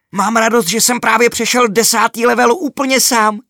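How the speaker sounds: high and loud, bursting with pride; boy telling mom he won alone; proud excitement. A narrator's reading. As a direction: boast happily to mom. Boy proud of beating level.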